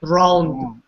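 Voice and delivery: "Drowned" with a d tacked on after the n; wrong DROWNED. Shown as a demonstration. Teacher shows it's not how we say it, wrong drowned. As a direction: repeat Drowned with its extra final d, falling. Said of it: "It's not how we say it".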